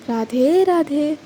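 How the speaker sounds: slow signoff. Real, not acted. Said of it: "signoff greeting".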